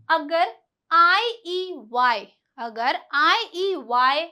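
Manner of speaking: slow spelled letters. Shown as a demonstration. Teacher slowly spelling the vowel rule, drawn out. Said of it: "spelling out the rule letters".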